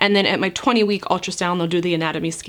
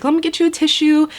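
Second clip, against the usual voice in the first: kind nurse; 8 semitones higher, 4 dB louder than usual. Retold or imitated. Nurse kindly offers tissue.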